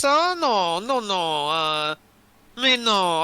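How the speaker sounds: put-on lightly French-accented refusal. Drow denies knowing the person, mild French accent. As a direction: demur with a touch of put-on French. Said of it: "what if he's French instead".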